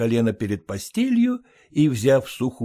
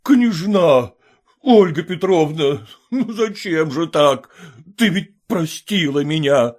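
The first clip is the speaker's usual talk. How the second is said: louder, higher pleading cry; anguished wail; 6 semitones higher, 5 dB louder than usual. Acted. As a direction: cry out to her in despair. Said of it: "Издал вопль Пятищев".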